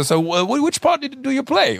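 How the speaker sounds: high, friendly questioning voice; curious Keitel. Retold or imitated. Keitel asking the German what role he plays, pitched high. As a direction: ask it up high, amused. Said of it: "meinte er so".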